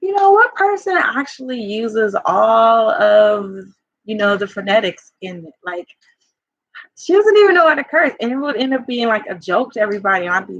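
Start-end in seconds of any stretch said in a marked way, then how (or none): 0.0-8.1 mocking ex-husband. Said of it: "he would go".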